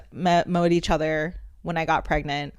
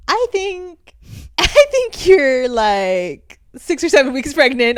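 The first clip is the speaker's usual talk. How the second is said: laughing realisation; 6 semitones higher, 3 dB louder, slower than usual. Retold or imitated. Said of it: "She's like".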